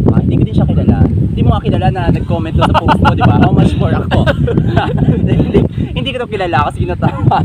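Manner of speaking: giggly, loud and high; laughing while talking. Real, not acted. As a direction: talk through laughter. Laughing through explanation.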